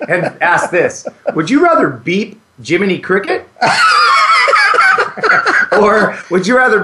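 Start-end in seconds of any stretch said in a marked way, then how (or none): 1.3-6.8 laughing. Real, not acted. Cracking up mid question.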